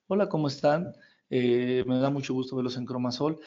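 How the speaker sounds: a mildly dull, overly serious greeting; dull serious talk. Shown as a demonstration. Coach demonstrating boring talk, mildly dull and serious. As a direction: show how serious people drone on. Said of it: "Platicamos así".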